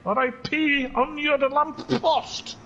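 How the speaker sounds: high, slow puppy retort; talking puppy. Acted. Puppy telling the greeter to go away, high drawn-out retort. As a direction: answer back as a little dog. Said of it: "He says".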